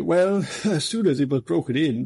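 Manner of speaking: chuckling as he starts the tale; genial laugh. A narrator's reading. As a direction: let a good-natured laugh break into the words. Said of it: "the superintendent laughed genially".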